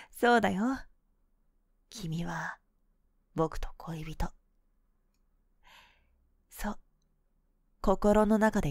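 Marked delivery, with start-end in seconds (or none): 1.9-6.8 soft whisper. Acted.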